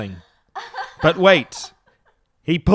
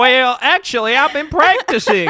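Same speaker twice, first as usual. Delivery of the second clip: put-on British accent; 7 semitones higher than usual. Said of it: "you sound different".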